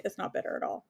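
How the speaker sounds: soft whispered echo; whispered aside. Real, not acted. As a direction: breathe it to yourself. Repeats answer under her breath.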